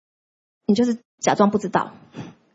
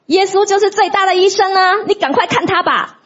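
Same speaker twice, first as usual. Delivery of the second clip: higher, lilting gentle voice of the Spirit; higher gentle Spirit voice, slowed; voice of the Holy Spirit; 9 semitones higher than usual. Retold or imitated. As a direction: voice the Spirit tenderly urging. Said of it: "圣灵就说".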